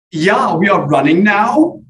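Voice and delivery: put-on loud, high, drawn-out Swedish accent. Lars summons his sleepy colleague for a run, exaggerated Swedish accent. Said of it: "gonna try to do a Swedish accent".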